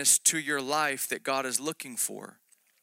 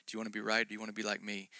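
gentle inner whisper; 3 semitones lower, 8 dB quieter, much faster than usual. Retold or imitated. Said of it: "It was a whisper in my heart".

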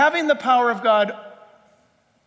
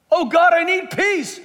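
higher, louder pleading cry to God; pleading believer; 6 semitones higher, 4 dB louder than usual. Retold or imitated. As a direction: beg God like a needy believer.

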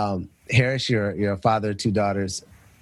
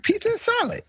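"Pizza and salad?" squeaked much higher in disbelief; high incredulous echo. Retold or imitated. College student echoing friends' baffled reaction, much higher. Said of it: "I was like".

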